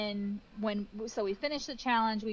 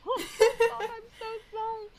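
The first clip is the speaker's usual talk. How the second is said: much higher, crying apology; high crying sorry; retold tearful apology; 13 semitones higher, 5 dB louder than usual. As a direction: plead sorry through tears. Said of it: "I immediately started crying".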